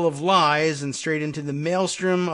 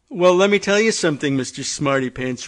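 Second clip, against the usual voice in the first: blustering Trump; 5 dB louder than usual. Retold or imitated. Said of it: "acted Trump retort".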